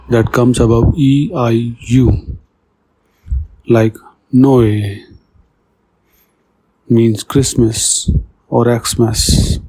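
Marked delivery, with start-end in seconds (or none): 4.3-5.0 "Noé" as two vowels, no-ay; French "Noé", each vowel on its own; vowels pronounced separately. Shown as a demonstration. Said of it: "each vowel must be pronounced alone".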